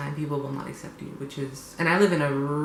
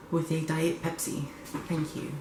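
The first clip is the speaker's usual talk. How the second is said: put-on British accent; 4 dB quieter, slower than usual. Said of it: "I spoke in a British accent".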